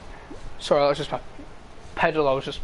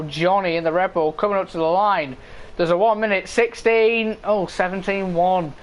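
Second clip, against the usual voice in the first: live play-by-play; 2 semitones higher than usual. Real, not acted. Commentator following Johnny to the line, live play-by-play. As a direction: lively race commentary, flowing towards the finish line.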